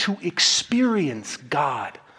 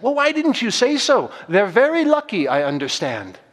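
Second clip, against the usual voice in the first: kind; 5 semitones higher than usual. Acted. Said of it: "hearing him speak so kindly".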